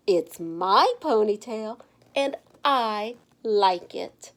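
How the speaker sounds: slow, deliberate, a little proud; slow defiant reply. Acted. Stephanie to the teasing kids, slow and defiant. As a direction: take your time, owning every word.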